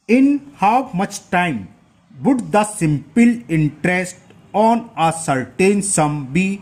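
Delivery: very slow, drawn-out reading aloud; question read-out. Acted. Teacher reading question eleven to the class, slow read-out. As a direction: spell out the question phrase by phrase, slowly.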